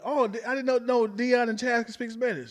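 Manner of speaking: high-pitched impressed onlooker; quoted astonishment; mock surprise. Imagined audience reaction, acted out.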